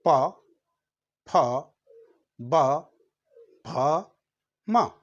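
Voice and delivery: प, फ, ब, भ, म said with lips closing and opening; slow lip-sound drill; lip letters demo. Shown as a demonstration. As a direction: pop प फ ब भ म off the lips. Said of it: "खुला, बंद हो रहा".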